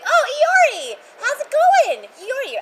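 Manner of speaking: high, loud calling out a name; excited greeting. Retold or imitated. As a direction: call him over, thrilled. I was like.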